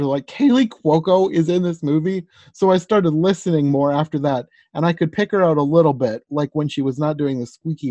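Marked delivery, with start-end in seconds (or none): 0.3-2.3 retold disbelief, pitched higher; mock-astonished question, voice lifting; jaw-dropped surprise. Podcaster retelling discovering an actress in the cast, jaw-dropped surprise. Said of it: "my jaw dropped".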